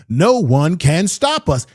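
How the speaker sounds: slow, drawn-out mock boast; slow, deliberate mocking of a boast; mocking Trump quote. To his viewers, slowly mocking Trump's boast. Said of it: "He says".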